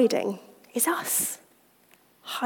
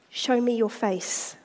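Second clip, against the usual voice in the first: gentle refrain; slower than usual. Acted. The Lord gently asking the busy believer. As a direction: say it patiently, lovingly.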